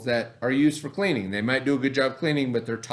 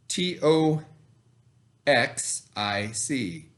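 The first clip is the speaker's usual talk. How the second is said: slow spelling; much slower than usual. Shown as a demonstration. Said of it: "chunk it out".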